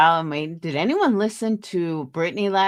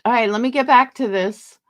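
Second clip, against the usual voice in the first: fed-up dismissal; 6 semitones higher than usual. Retold or imitated. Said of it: "you could really hear it in her voice".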